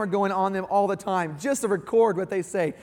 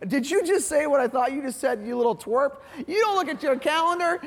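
mock outrage; 5 semitones higher than usual.

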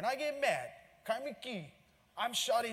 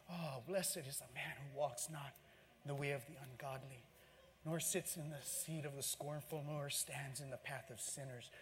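quiet psalm recitation; 2 semitones lower, 3 dB quieter than usual. Acted.

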